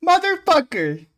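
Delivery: loud, high, drawn-out outburst; exasperated disbelief. Real, not acted. Player reacting to the character's tactless line, exasperated shout. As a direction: shout it in incredulous outrage, stretching the words. Outraged at what game character said.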